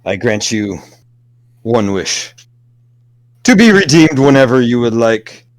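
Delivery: bestow the gift like a solemn lord; grandly granting a wish. Acted. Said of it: "a hand reaches out ... towards you".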